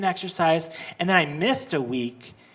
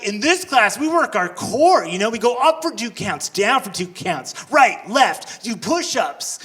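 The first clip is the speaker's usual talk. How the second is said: intense instructor; 3 semitones higher, 4 dB louder than usual. Retold or imitated. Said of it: "He's really intense".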